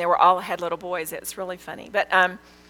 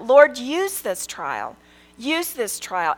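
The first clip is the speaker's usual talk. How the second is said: slow, raised plea, easing on the repeat; earnest prayer; 3 semitones higher, much slower than usual. Retold or imitated. Speaker retelling her prayer to the Lord about this trial, earnest pleading. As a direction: plead slowly with God. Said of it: "I prayed for that".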